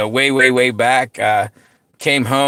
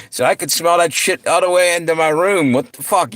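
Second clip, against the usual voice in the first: higher-pitched mock complaint; retold yelling; 6 semitones higher than usual. Brother woken by smoke in his room, mild retold yelling. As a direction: play the yelling lightly, voice raised in pitch. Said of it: "he's, he's yelling at me".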